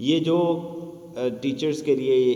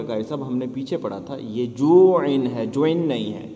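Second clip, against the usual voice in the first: put-on child answering. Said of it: "وہ کہے گا".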